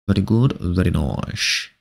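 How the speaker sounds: low and drawn out, a touch mock-wise; slow low answer. Streamer answering chat, low and slow. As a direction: drop the pitch and stretch it slowly. Answering chat's question himself.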